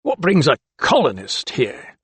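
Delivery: deliberate weight on "colonist", pitch jumping; emphasis on colonist. A narrator's reading. Keeper intimidating doctor, deliberately stressing "colonist". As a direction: lean pointedly on the word "colonist". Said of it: "deliberate emphasis on the word colonist".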